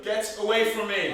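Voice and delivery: loud frightened shout. Acted. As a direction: push him away with your voice. Captive wakes, shouts at captor.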